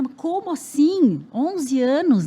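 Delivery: loud, high, drawn-out disbelief; re-enacted incredulous outburst; retold freak-out. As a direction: protest like a shocked parent. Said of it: "Eu surtada".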